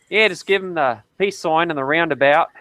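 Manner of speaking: mock Australian, relishing "roundabout"; playful Australian accent. Joking about peace signs in Australia, Australian accent. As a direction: put on an Aussie accent. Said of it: "You just wanted to say roundabout".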